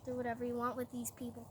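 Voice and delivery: soft, fast careless brush-off; dismissive. Retold or imitated. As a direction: wave it away. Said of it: "he's like".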